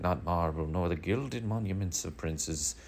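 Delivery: slow, dramatic recitation; mock-grand sonnet reading; reciting sonnet. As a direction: recite Shakespeare slowly, like a schoolkid. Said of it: "we're like".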